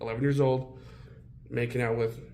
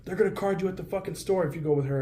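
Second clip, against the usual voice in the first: mock warning voice; 7 semitones higher, faster than usual. Friend teasing him about an older woman, high fast mock warning. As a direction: fire off the warning like a nagging friend, higher and quick.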